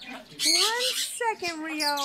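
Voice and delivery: "One second" stretched out very slowly; slow, emphatic "One second" to an impatient pet; insistent stalling. Real, not acted. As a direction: draw out each word of "One second". Repeats it to impatient bird.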